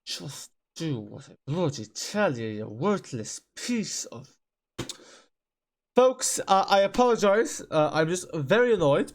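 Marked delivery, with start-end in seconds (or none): 0.1-4.3 muttered fury. Real, not acted. Ordering the game, furious.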